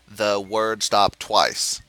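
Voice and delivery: slow, even reading with no inflection; flat monotone read. Shown as a demonstration. Defuser reading module text to partner, flat and slow. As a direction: read it off like a machine, slowly. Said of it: "I try to say it as monotone and flat as possible".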